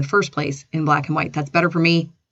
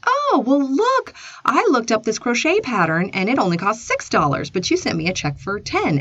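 higher-pitched, lively retelling of her reply; acted bright reply; 5 semitones higher than usual. Telling pen pal the pattern cost less, acted bright reply. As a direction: act out a surprised discovery, starting high.

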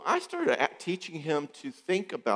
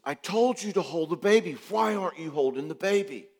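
controlling wife scolding; 7 semitones higher than usual. Retold or imitated. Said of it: "she says".

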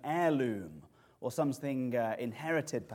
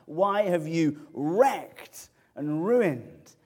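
slow anguished protest; 3 semitones higher, 5 dB louder, slower than usual. Retold or imitated. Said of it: "It agonizes our souls".

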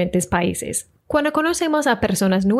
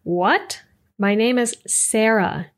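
put-on puzzled mom in a Michigan accent; slower than usual. Mom correcting Colombian friends, Michigan accent. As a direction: say Sarah the Michigan way, SAIR-uh. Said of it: "with her Michigan accent".

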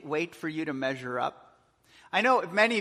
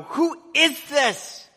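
slow, higher and louder in awe; awed question; 10 semitones higher, 9 dB louder, much slower than usual. Retold or imitated. People in awe at Jesus, slow amazed question. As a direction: let the wonder hang on each word. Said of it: "people go".

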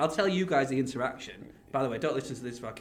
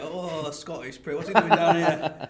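slow, laughing mock-scornful sneer; hammed-up sneering; slower than usual. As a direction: sneer at him in jest. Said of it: "You were like".

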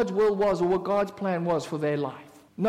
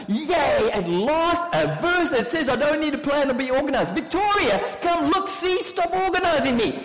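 a loud, higher burst of hammed-up delight; mock glee; 5 semitones higher, 4 dB louder than usual. Preacher mocking a disorganized listener's glee. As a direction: crow like you've found an excuse not to plan.

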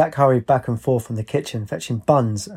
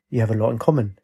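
a knowing, slightly different timbre, raised eyebrow; dry, pointed repeat; faster than usual. A narrator's reading. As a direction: lay the line back at him with a wry edge. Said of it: "Katie raised an eyebrow and said".

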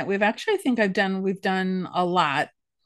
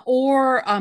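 ordinary talk

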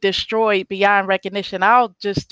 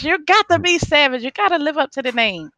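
mock stern coach; 5 semitones higher than usual. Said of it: "and I'm like".

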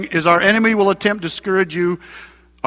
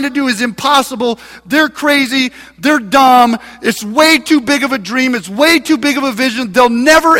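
mocking; 2 semitones higher than usual. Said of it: "he's saying in a mocking voice".

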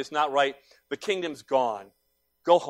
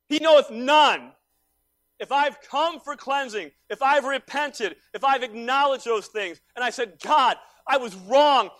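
higher, emphatic sermon cadence with loud peaks; impassioned preaching; 10 semitones higher, 9 dB louder, slower than usual. Real, not acted. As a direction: proclaim it with a preacher's full conviction. Preaches at full force.

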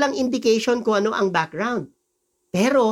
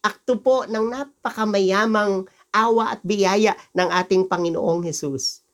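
usual speaking voice

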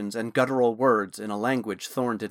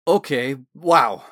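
surprised wow, much louder; exclaiming; 8 dB louder, slower than usual. Acted. Naz watching the evil coin vanish, exclaiming in surprise. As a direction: blurt it out in amazement. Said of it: "Naz exclaimed".

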